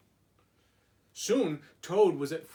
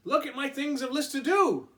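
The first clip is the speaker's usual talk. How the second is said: higher, louder eager Toad; 10 semitones higher, 6 dB louder than usual. Acted. Toad showing Frog his list, eager and higher.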